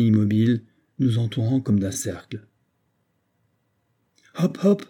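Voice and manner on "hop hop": a much higher, friendly call to the horses. A narrator's reading. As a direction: hail the horses kindly. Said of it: "leur cria amicalement Makar".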